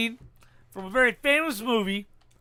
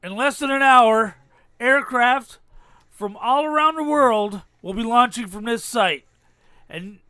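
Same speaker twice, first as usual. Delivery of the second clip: movie speech impression. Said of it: "Guess what movie I've taken this from".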